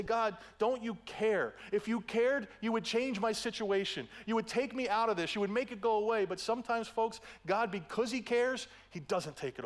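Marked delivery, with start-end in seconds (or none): 0.0-6.2 high, pleading, slowed complaint to God; a mild, whiny plea to God; complaining prayer. Retold or imitated. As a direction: plead like a hurt believer. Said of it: "And we say".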